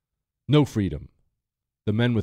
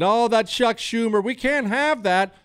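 high, dismissive mock of the media; hammed-up media tut-tut; 11 semitones higher, 4 dB louder than usual. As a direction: mimic a fake-outraged pundit, pitched up. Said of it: "everybody in the media today maybe playing it".

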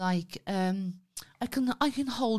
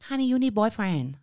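put-on Thai accent. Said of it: "do the Thai accent".

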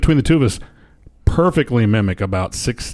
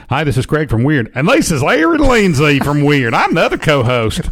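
put-on higher Southern-accented show promo; 3 semitones higher than usual. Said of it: "I can actually do a promo".

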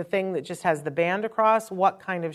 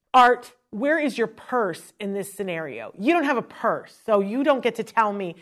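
nasty retort; 2 semitones higher than usual. Retold or imitated. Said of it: "I was nasty".

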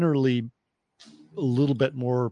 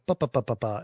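staccato syllables imitating an accent; abgehackte Akzent-Imitation; 3 semitones lower, 4 dB quieter than usual. Shown as a demonstration. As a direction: tap out each syllable evenly. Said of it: "as the other accent was".

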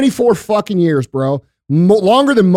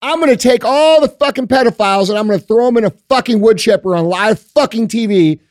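higher, fiery stump-speech rant, building to a shout; mock campaign speech; 4 semitones higher than usual. Imagined candidate promising brutal justice, higher, shouting rally voice. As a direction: play a hardline candidate firing up a crowd. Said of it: "someone like me will come along and say".

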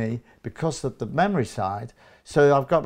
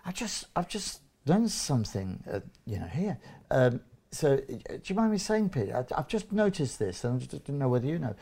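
gentle permission; 4 dB quieter than usual. Shown as a demonstration. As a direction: broach it delicately, feeling your way. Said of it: "gentle permission with power".

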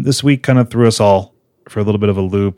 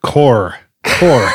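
mock cockney; 2 semitones higher, 4 dB louder than usual. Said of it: "That's not terrible".

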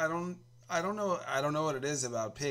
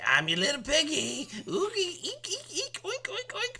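high piggy voice rising into squeaks; very high, playful pig noises; little piggy voice; 4 dB louder than usual. Acted. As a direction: squeal and oink like a piglet. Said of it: "But if you say".

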